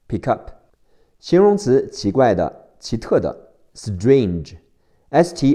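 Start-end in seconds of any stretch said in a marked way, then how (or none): 0.1-0.5 k of pick flows straight into up; linked pick-up. Shown as a demonstration. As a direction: PICK UP run together as pi-kup. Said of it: "要连起来".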